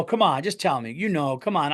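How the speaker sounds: mildly pushy, coaxing imitation; retold prying. Nosy stranger to shopper in a store, mildly prying. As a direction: mimic someone pressing for an answer. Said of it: "really prying".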